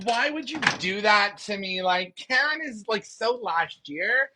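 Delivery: hammed-up dramatic Karen whine; mock Karen. Bringing out Karen for viewers, a hammed-up whiny Karen voice.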